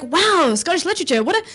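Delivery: lightly hammed-up gushing awe; mock impressed. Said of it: "they'll be all like".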